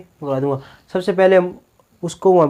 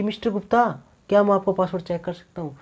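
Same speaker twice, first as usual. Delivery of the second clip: much softer, courteous request; polite and gentle; 6 dB quieter than usual. Shown as a demonstration. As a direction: ask Mr Gupta softly and politely. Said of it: "तो प्यार से बोला ना वो". (प्यार से, धीरे से पूछना)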